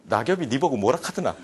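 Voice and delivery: lightly done Gyeongsang blunt husband; a hint of a curt Gyeongsang man brushing her off; mild Gyeongsang dialect retort. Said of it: "경상도 남편이".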